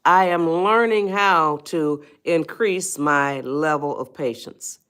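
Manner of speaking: slow, deliberate self-affirmation; measured mantra for patience; affirmation spoken aloud. Shown as a demonstration. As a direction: say it slowly like a vow to yourself. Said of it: "and say it out loud".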